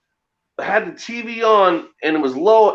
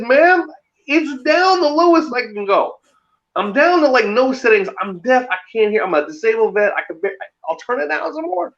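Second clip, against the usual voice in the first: exasperated pleading; 6 semitones higher than usual. Retold or imitated. Exasperated reply to old lady.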